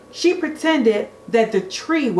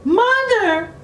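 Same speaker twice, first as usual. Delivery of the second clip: very high, louder, building calls; calling out; 13 semitones higher, 4 dB louder, much slower than usual. A narrator's reading. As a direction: call for the family, rising each time. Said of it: "she cried".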